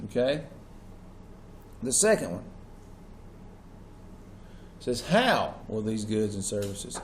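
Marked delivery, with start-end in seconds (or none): 5.0-7.0 How held and set out first, the rest lower; stress on How. Shown as a demonstration. Teacher dictating the second question, stressing How. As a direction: put the weight on How, drop the rest. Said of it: "Emphasis on the word how".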